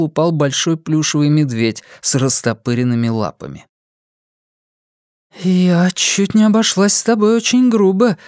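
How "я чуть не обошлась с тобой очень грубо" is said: wry remark. Acted. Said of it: "заметила ему Сага".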